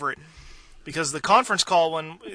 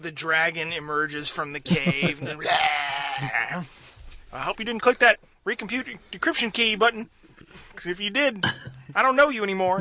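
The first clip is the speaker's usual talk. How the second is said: scary network admin; 3 semitones higher than usual. Retold or imitated. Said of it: "He's like".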